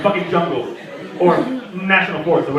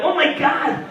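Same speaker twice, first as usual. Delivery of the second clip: higher, laughing gush of delight; mock gushing girl; 5 semitones higher, slower than usual. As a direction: gush like an impressed date. Girl impressed by glowing balls.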